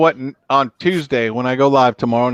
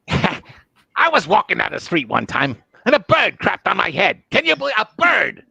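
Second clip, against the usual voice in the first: much higher, shouty, grating; Gilbert Gottfried impression; 8 semitones higher than usual. Impressing Gilbert Gottfried for the stream, high and whiny. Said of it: "Gilbert Godfrey".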